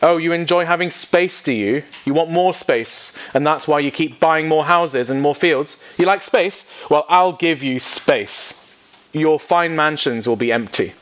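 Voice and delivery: high, mocking, sarcastic God voice. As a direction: taunt the greedy rich as God would. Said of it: "In other words".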